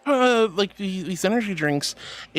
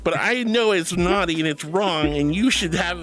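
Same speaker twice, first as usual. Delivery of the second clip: chiding teacher; 2 semitones lower than usual. Pretend. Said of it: "I feel like a school teacher chiding".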